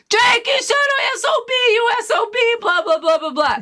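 high furious shout at Jake; angry yelling. Retold or imitated. Hanging from the pipes, yelling at laughing Jake. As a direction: scream curses down at the prankster. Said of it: "And I'm like".

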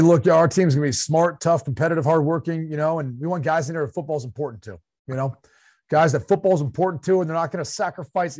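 a hint of a Southern head coach; lightly voiced press-conference coach, a touch of twang. Pretending to be a newly hired coach at the podium, mild coach voice. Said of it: "You notice I went to a coach voice here".

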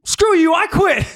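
very high, loud laughing squeal of a tantrum; hammed-up high bratty quit; mock tantrum. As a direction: squeal the quitting line like a brat. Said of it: "he was like".

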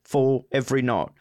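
weary, matter-of-fact Cockney; deadpan operator in put-on Cockney; lightly put-on Cockney; Cockney 911 operator. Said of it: "is Cockney".

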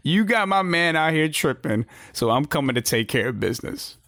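lightly acted wrestling promo; mock promo call-out, lightly voiced; her promo. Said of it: "That's what her promo is gonna be".

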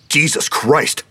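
high, loud alarmed cry; shout. A narrator's reading. Fred seeing boys with a hatchet, shouting in alarm. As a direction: panic bursting out. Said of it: "Fred shouted".

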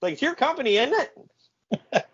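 imitating an indignant announcer; accusing shout. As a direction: throw it back in his face. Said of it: "And he's like".

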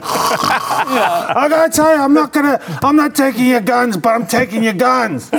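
imitating a confused elderly president; rambling old man. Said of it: "like that crazy uncle".

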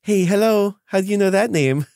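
suddenly alarmed and suspicious; surprised. Acted. Fae startled by a name.

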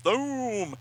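high, drawn-out blast noise; imitated boom. Beam striking the plaza, high imitated boom. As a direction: voice a comic-book explosion.

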